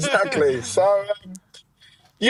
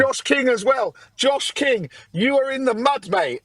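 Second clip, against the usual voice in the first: cheeky taunting, raised pitch; gloating callout; 5 semitones higher than usual. Real, not acted. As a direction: call him out with glee.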